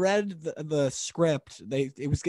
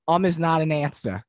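Judge Judy voice; 3 semitones higher, 3 dB louder than usual. Retold or imitated. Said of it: "asked me to voice the character that way".

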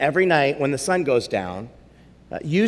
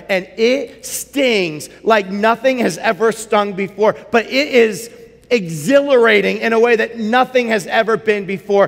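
excited; 5 semitones higher, 4 dB louder than usual. A narrator's reading. Climax of the story.

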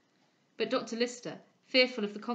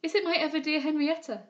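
high, louder, delighted question; voice of pleasure; 7 semitones higher, 6 dB louder than usual. A narrator's reading. Patient recognises her dear friend, delighted. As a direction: ask it with rising delight. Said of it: "in a voice of pleasure".

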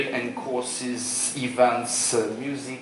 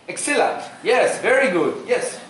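mock enthusiasm; 7 semitones higher, 6 dB louder than usual. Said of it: "How's business?".

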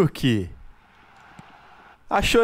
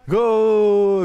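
Galvão Bueno goal call; 3 dB louder than usual. Pretend. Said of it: "Igual Galvão Bueno".

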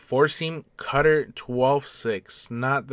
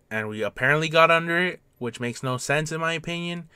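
higher, oddly lilting commentary; odd raised voice; 4 semitones higher than usual. Real, not acted. Gamer puzzling over a missed hit, odd raised voice. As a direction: let the voice drift up oddly as you puzzle. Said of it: "I don't know why I'm talking like this".

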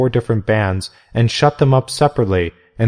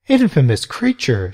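indignant exclamation; 3 semitones higher than usual. Acted. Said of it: "she exclaimed".

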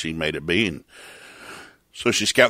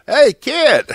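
mock God bellowing, much higher and louder; mock yell; 8 dB louder than usual. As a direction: shout it like a booming call across the yard. God imagined yelling.

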